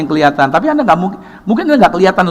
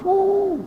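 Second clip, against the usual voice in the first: engine rev whoosh; 5 dB quieter than usual. Retold or imitated. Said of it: "Bantai terus". (suara mesin meraung tinggi)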